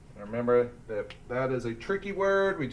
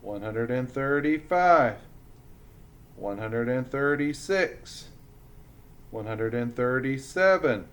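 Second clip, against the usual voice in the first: measured classroom count with pauses; counting aloud. Shown as a demonstration. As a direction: count up in a steady singsong, pausing between numbers.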